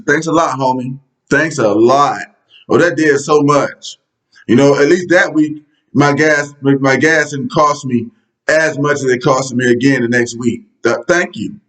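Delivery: dry sarcastic gratitude; understated mock thankfulness. Real, not acted. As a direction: thank them as if they did a big favor, without meaning it. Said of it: "that was sarcasm".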